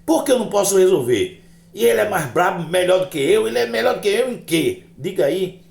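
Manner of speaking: high, heated string of questions; hammed-up indignation, pitched high; acted indignant challenge. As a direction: challenge him like a wounded braggart. Indignant retort, challenging a rival.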